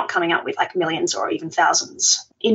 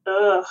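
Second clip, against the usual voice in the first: groan of dread. Real, not acted. Guest asked about SEO and keyword research, groaning.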